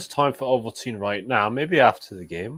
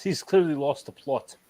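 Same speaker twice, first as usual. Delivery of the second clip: mock South African accent; 2 semitones higher than usual. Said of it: "I really think South African".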